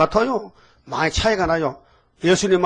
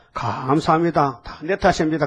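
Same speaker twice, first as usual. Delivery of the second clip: humble thanks. Pretend. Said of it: "하지 말고".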